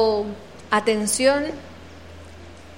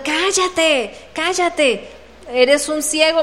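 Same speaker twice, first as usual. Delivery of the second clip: acted hushing; 4 semitones higher, slower than usual. Bystanders silencing the blind beggar, acted scolding. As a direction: shush him in a raised, mock-scolding voice.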